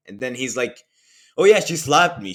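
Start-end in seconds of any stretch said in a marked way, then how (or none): 1.4-2.3 mocking whine. Mocking the liar's excuse.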